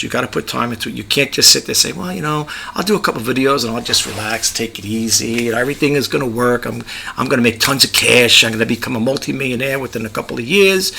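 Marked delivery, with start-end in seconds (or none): 1.9-10.9 low, soft, laid-back mimicry; lightly mock someone expecting easy riches; casual, complacent daydreamer, voiced quietly. Voices a complacent would-be YouTuber.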